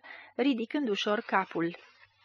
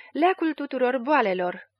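higher, louder herald's call; proud announcement; 4 semitones higher, 5 dB louder than usual. A narrator's reading. Schemer proclaims his cure to the patient, announcing. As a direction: announce it like a grand promise. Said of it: "vesti Panteră".

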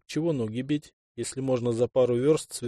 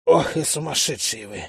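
a hint of a wheeze after choking; hoarse croak; 2 semitones higher than usual. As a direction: croak it with a squeezed throat. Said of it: "прохрипел вор".

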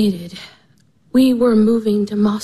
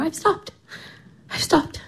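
faint tearful whisper; 5 semitones higher, 7 dB quieter than usual. Acted. Irina choking back tears.

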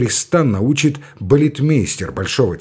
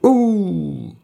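higher, clipped single bark; short whip-crack command; 6 semitones higher than usual. Acted. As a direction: snap it like a whip. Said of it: "коротко и чётко, как удар конского бича".

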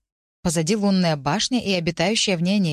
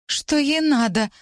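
high, slow whimper while running; 8 semitones higher, 3 dB louder, slower than usual. A narrator's reading. Heroine whimpering to the boys as she runs. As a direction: whine it out, scared and breathless. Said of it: "прохныкала я на бегу".

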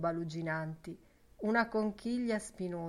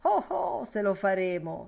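merry singsong; 6 dB louder than usual. Acted. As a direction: chirp it out cheerfully. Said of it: "stornellò allegramente Ben Dollard".

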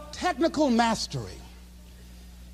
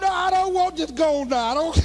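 mock-despairing refusal; 3 semitones higher than usual. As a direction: give up in comic misery.

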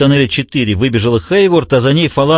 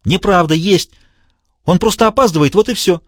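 high, denying madman voice; insistent villain; 6 semitones higher than usual. A narrator's reading. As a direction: refuse to believe it. Diogenes insists.

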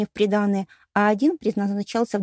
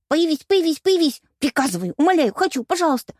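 louder, higher desperate pleading; pleading into a sob; 7 semitones higher, 5 dB louder than usual. A narrator's reading. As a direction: beg until the voice breaks. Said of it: "Под конец всхлипнула я".

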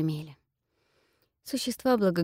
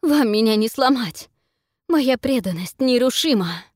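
defiant; 6 semitones higher, 9 dB louder than usual. Acted. Defiant priestess facing hunters.

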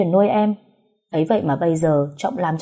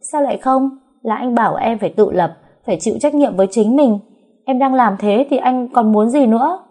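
raised high and loud, defiant; loud retort; 6 semitones higher, 4 dB louder than usual. A narrator's reading. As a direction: talk back loudly, chin up. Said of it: "nói rõ lớn". (nói to, vênh váo cãi lại)

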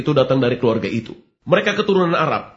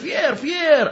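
mock shout; 11 semitones higher than usual. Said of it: "Seseorang berteriak".

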